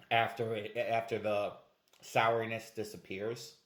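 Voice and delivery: talking around hard candy; candy rolling in mouth; sucking hard candy. Real, not acted. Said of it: "You're still gonna have to suck it down".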